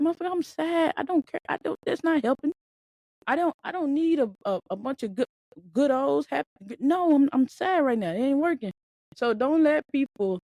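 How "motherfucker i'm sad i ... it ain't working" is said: mock sad rant. Voicing a depressed person's reply.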